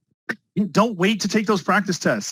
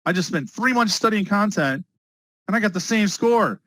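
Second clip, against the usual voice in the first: voicing a let-down student, pitch rising higher; imagined discouraged student; 5 semitones higher than usual. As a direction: play the student who wasted three months. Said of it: "What's that gonna feel like?".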